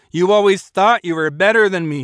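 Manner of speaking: Rowdy hurls the accusation at his leaving friend, fast and loud; angry yell. Acted. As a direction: spit it out, hurt and furious. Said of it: "he yelled".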